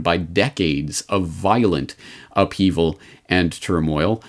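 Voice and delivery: slow phrase leaning on "violent"; "violent" set apart with slow, deliberate weight; stress on violent. Real, not acted. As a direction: draw out the phrase, giving "violent" deliberate emphasis. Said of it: "Emphasis on the word violent".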